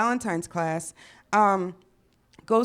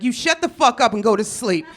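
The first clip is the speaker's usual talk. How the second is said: angry mom yelling; 4 dB louder than usual. Retold or imitated. Mom yelling at her daughter.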